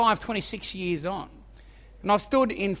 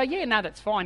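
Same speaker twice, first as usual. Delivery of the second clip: faked calm. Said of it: "And outwardly, I go".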